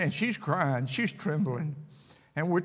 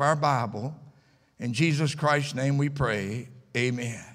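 public prayer. Real, not acted. Preacher prays before the evening message, earnest pulpit prayer. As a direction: lead the congregation in spoken prayer.

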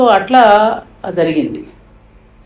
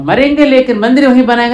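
louder, higher slogan cry; wounded boy shouting the slogan, loud; retold shouting; 5 semitones higher, 6 dB louder than usual. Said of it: "అని అరుస్తున్నాడు".

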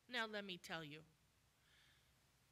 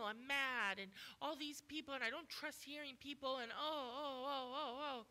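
higher, hammed-up fretting that breaks into mock crying; mock emotional outburst; 3 semitones higher than usual. Preacher parodies angry members venting, fake sobbing. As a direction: play the upset churchgoer pouring it all out. Mocking congregants' angry feelings.

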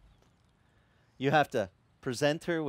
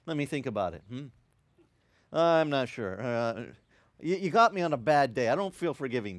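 grudging God; 2 semitones lower than usual. Retold or imitated. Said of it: "what does he say?".

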